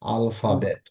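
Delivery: আলফাবেট as an even al-fa-bet; Portuguese pronunciation. Shown as a demonstration. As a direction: model আলফাবেট with an open first A. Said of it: "কি বলবো?".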